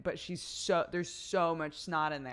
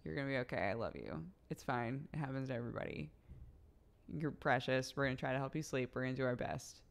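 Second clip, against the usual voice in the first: put-on tender talk to baby; 3 semitones lower, faster than usual. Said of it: "Just say, like".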